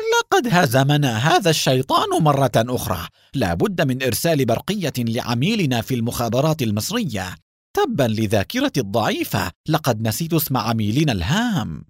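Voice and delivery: a touch of angry bluster. Acted. Haim reports the loss to Baruch, lightly angry. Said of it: "بلهجة غاضبة".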